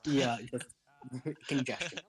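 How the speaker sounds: talking while eating; words round a bite of food; mouth full. Real, not acted. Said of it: "don't talk with your mouth full".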